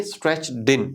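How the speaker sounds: Stretched in run together as "stretch-din"; linked "din". Shown as a demonstration. Teacher showing consonant-plus-vowel linking, "din". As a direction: carry the D of Stretched onto in. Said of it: "डिन की sound आएगी".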